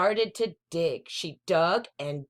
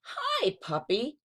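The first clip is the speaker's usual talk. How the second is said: lightly voiced little boy; 5 semitones higher than usual. Little boy greets puppy.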